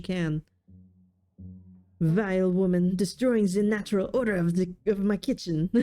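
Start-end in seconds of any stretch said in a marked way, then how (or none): 2.0-5.7 lightly hammed-up French accent; bad French accent. Indignant cat scolding in its kitchen, bad French accent. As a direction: sneer it in a badly faked French accent. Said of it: "I'm sorry for my accent".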